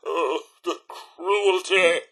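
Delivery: slow, drawn-out dismay; dramatic lament. Acted. Robot butler bemoans cruelty to employer, slow lament. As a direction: stretch it into a woeful sigh.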